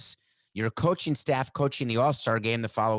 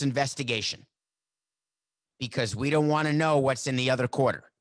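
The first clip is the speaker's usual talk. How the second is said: mock pronouncement; 3 semitones higher than usual. Mock official announcing absurd investigation.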